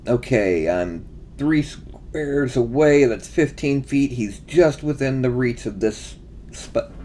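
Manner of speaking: holding back hiccups mid-sentence; suppressing hiccups. Real, not acted. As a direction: talk while fighting off hiccups.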